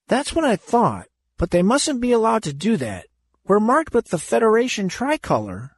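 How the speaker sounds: put-on high, earnest boy's voice; anxious young Andy. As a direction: reason it out, worried but sure.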